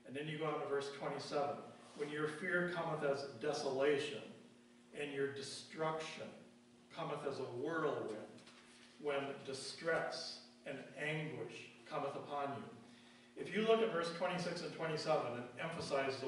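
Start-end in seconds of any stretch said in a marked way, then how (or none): 2.0-13.4 measured reading with pauses, leaning on "fear", "desolation", "destruction", "distress", "anguish"; emphasized key words. Real, not acted. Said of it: "words that I just emphasized".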